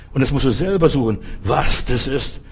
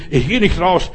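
Männerstimme; 4 semitones higher, 3 dB louder than usual. Retold or imitated. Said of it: "Also mit Männerstimme".

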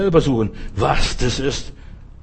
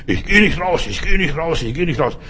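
Männerstimme; 2 semitones higher than usual. Retold or imitated. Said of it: "Mit männlicher Stimme schrie".

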